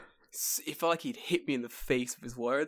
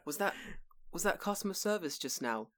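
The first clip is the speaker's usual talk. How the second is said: mock delighted surprise; 5 semitones higher, 4 dB quieter than usual. Mock delight at mediocre service.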